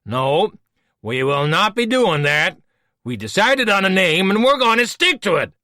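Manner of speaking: a fussy villain defending his pet name; Voke, petulant. Acted. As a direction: huff that the name is settled. Voke insists.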